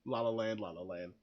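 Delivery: descending, fading chant of a title; winding down. Shown as a demonstration. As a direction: let the repeats sink away into a low murmur. Repeats title, winding down dismissively.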